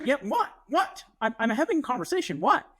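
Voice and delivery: retold irritation at being interrupted; exasperated parent. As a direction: snap back at an interrupting kid. Exasperated parent interrupted mid-conversation.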